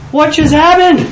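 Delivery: high-pitched astonishment; retold bewildered outburst. Storyteller voicing his thought while walking down the street, high bewildered outburst. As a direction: replay sudden disbelief at yourself.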